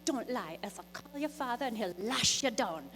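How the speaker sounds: high, loud mock-scolding mother; scolding mom. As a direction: play the angry mom threatening her boy. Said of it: "and the mom's like".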